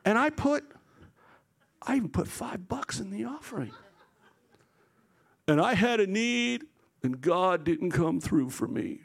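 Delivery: mock-earnest complaint with long pauses; aggrieved churchgoer. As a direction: imitate someone haltingly airing a grievance. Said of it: "they tell you these crazy stories about their life".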